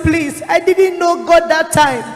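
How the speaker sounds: drawn-out retold plea; pleading. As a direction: plead slowly, excusing yourself. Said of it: "I was pleading with him".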